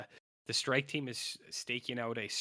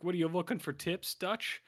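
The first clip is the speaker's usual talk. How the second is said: mocking cops; 7 semitones higher, 3 dB louder than usual. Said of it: "'cause they're like".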